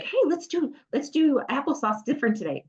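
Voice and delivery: put-on high, playful pitch to a child; upbeat suggestion. Parent offering snack at home, upbeat. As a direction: sell it as a fun new idea.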